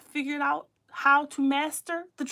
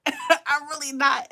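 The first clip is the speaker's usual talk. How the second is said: slow, laughing denial; 4 semitones higher, slower than usual. Real, not acted. Host to her viewers, laughing slowly through the denial.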